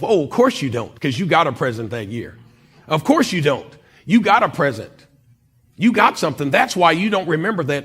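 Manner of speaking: loud, resentful comeback in a retold thought; mock-indignant, hitting each phrase hard; indignant retort. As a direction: throw it back like an old grievance. Bitter retort to cousin in his head.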